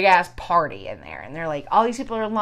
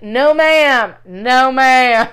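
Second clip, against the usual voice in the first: firm refusal; 3 semitones higher, 7 dB louder, much slower than usual. Retold or imitated. Refusing the camera.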